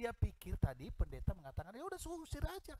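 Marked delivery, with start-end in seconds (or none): 1.8-2.7 high, dismissive quip; imagined curt reply. Retold or imitated. Pastor's imagined harsh reply. (jawaban ketus bernada tinggi)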